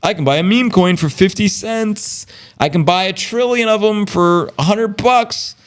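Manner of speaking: high, giddy newbie gushing over cheap coins; excited crypto newbie. Retold or imitated.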